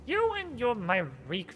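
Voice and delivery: soft, persuasive vampire. Acted. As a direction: tempt them like a scheming vampire. Voicing vampire NPC.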